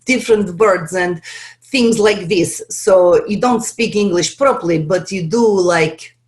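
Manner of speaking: clipped Russian-accented English; broken English in an Eastern European accent. Shown as a demonstration. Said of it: "like, with Russian".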